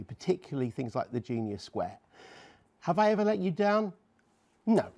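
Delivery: warm and persuasive. Acted. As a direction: lean in and win the viewers over gently. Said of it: "I just need to speak to the viewers".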